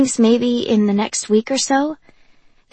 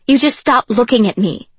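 louder, insistent mock yell; retold scream; 3 semitones higher, 7 dB louder than usual. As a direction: push it a little harder as a repeated scream. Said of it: "she'd scream".

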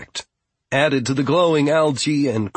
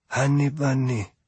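whispered tenderly. Acted. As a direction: coo it gently to a hurt friend. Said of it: "Fia whispered tenderly".

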